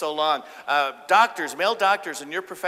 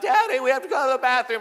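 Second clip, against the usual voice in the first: put-on higher whiny child voice; whiny kid; 10 semitones higher, 7 dB louder than usual. Kids in back seat asking dad to stop, whiny child voice. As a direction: plead like a little kid.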